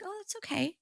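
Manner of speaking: hushed, tender mom voice; retold gentle reassurance. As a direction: lightly reassure a sorry child. Mother soothing apologetic son, retold.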